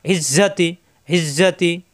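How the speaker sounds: ইজ্জাতি opening on ই pressed in the throat; throat-pressed vowel. Shown as a demonstration. Teacher repeating ইজ্জাতি for learners, throat-pressed first vowel. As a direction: press the throat, then hold the doubled consonant in ইজ্জাতি. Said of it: "ই কণ্ঠনালীতে চাপ দিয়ে".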